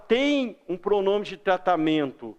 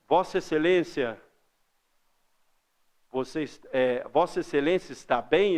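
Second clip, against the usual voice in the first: measured, lower and deferential; formal respectful address; 4 semitones lower than usual. Shown as a demonstration. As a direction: address the judge with care. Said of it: "como é que você chega pro juiz". (tratamento formal e respeitoso)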